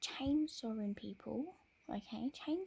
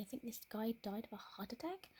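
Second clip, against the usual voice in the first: ordinary delivery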